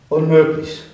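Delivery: a touch of a panicked cry; lightly voiced shout of dismay; mock shout. A narrator's reading. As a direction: exclaim it in alarm. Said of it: "schrie er".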